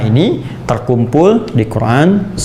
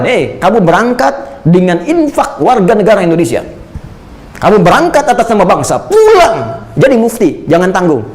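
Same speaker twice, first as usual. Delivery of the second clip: mock send-off charge; 5 semitones higher than usual. Preacher voices charge to scholars.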